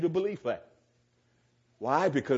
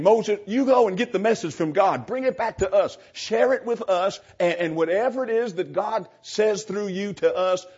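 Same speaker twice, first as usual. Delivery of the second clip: higher, louder, eager plea to Moses; eager Israelites; 4 semitones higher, 4 dB louder than usual. Retold or imitated. Preacher voicing the children of Israel pleading with Moses, eager and higher. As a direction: voice the people, keen and a little pushy. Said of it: "They're saying".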